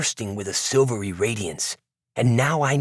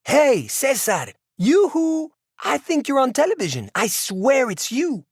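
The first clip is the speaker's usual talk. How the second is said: calling out; 14 semitones higher than usual. A narrator's reading. Neighbor hollers out her back window into the courtyard, high calling out. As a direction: call out in a high, stretched voice. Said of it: "shouted out into the courtyard".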